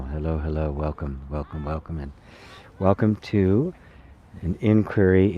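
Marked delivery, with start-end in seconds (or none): 0.0-2.1 soft welcoming. Real, not acted. Soft repeated welcome to listeners.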